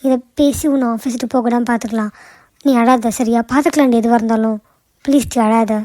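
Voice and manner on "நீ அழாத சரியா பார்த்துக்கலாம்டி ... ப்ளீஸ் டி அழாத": gentle, slightly lowered voice; comforting. Acted. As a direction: soothe a crying friend. Friend comforts crying Nila. (ஆறுதலாக)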